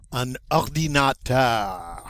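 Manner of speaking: ordinateur ending on a throaty French R; teacher's model word; guttural French R. Shown as a demonstration. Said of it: "pronounce it with that guttural sound".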